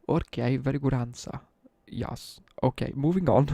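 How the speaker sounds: imitating a teacher hurrying past an awkward answer; loud, stilted classroom acknowledgement; mock teacher brush-off. Teacher responds to a pupil's rude answer, mock-composed and loud.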